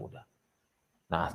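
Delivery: ordinary delivery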